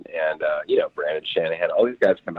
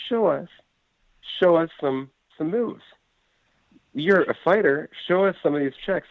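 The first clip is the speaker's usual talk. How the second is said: put-on high-pitched kids pestering their hero; eager begging; 11 semitones higher than usual. Kids ask a fighter for moves, high begging. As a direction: plead in a raised, insistent voice.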